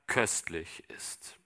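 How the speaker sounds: slow, hushed whisper to end the verse; whispered close. Acted. Preacher ends the Bible verse to the congregation in a slow whisper. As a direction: let the last line fall to a whisper.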